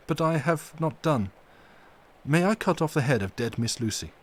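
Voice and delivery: grave doctor asking a dreadful favour; Van Helsing. Acted. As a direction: lay out the mystery solemnly. Van Helsing explains the plan.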